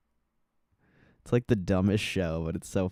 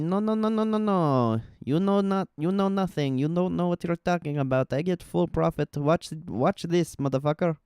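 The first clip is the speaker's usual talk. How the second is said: high, hammed-up stubborn know-it-all; mock the trader who won't listen; mock cocky trader; 7 semitones higher than usual. Streamer imitating a cocky trader to chat, high and hammed-up. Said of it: "You're like".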